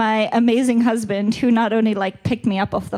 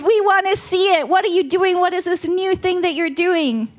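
earnest pleading; 8 semitones higher than usual. Retold or imitated. Voicing their plea to God.

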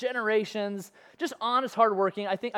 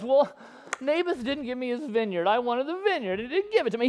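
a mild whiny king's complaint, slightly higher; whining like a baby; 3 semitones higher than usual. Retold or imitated. King Ahab to his wife about the vineyard, mock whining. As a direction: whimper it out like a sulking child. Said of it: "he's just whining like a baby".

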